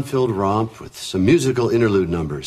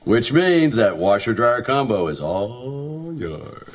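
exaggerated sitcom dad; slower than usual. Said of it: "are you sure you want it that exaggerated".

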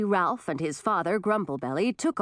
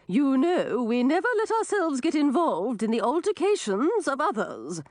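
high, aloof fairy; a fairy keeping its distance, high; 7 semitones higher than usual. A narrator's reading. Swamp Fairy voiced in story.

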